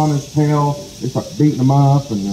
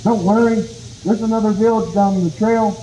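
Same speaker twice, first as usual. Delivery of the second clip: eager reassurance; 8 semitones higher than usual. Acted. Rabbit reassures possum.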